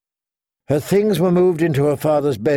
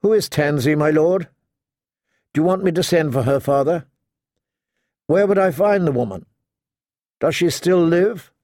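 higher, pressing questions; urgent questioning; 5 semitones higher than usual. Acted. Daughter questions her delirious father about Tansy, urgent. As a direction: press him for an answer, pitched up.

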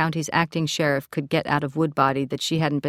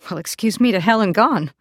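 higher-pitched, indignant outburst; hurt, offended retort pitched up; stung cry; 5 semitones higher, 4 dB louder than usual. A narrator's reading. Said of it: "Lacey cried, stung".

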